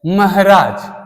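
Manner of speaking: महाराज said "mahraaj", middle vowel shortened; wrong pronunciation. Shown as a demonstration. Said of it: "महाराज नहीं होता है".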